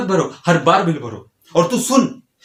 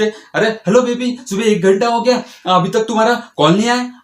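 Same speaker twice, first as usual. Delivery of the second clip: mock girlfriend voice; 5 semitones higher than usual. Mocking girlfriend's morning call.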